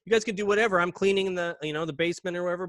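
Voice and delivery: quick, high-pitched easygoing permission; super friendly. Retold or imitated. Janitor letting the kids explore, super friendly. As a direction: imitate a casual, friendly go-ahead. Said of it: "was super friendly".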